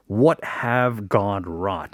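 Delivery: very slow, low, weighty recital; solemn quote. Retold or imitated. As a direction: intone each word gravely. Solemnly requotes the first message.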